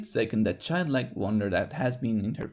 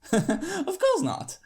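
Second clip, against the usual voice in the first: slow, higher, strained-casual denial; forced casual denial; 6 dB louder, much slower than usual. Acted. Doctor lying to Applejack, strained casual. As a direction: cover the panic with fake ease. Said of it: "I force out a laugh".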